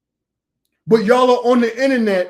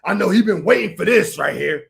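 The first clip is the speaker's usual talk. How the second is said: mocking imitation. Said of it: "That's how you talk".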